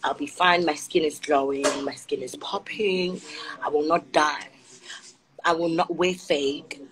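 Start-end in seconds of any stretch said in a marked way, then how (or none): none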